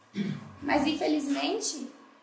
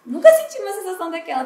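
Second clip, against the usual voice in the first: nervous rush; 2 semitones higher, 9 dB louder, faster than usual. Real, not acted. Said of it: "eu tava bem nervosa".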